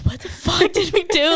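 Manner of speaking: exasperated mock protest; mock bewilderment. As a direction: play the clueless, wronged partner. Voicing baffled partners.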